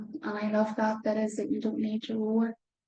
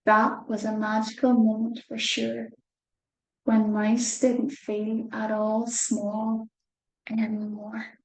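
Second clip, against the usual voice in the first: slower, careful reread. Shown as a demonstration. Reader rereads the line for children, a wee bit slower. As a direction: read it again, slowly. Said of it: "a wee bit slower this time".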